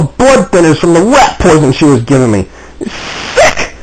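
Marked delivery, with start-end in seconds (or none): 2.8-3.7 disgusted whisper. Real, not acted. Disgust at poisoning.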